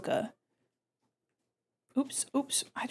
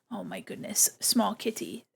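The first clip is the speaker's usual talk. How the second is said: hushed whisper over kitten; 5 dB quieter than usual. Real, not acted. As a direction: breathe it in awe. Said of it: "whisper measured".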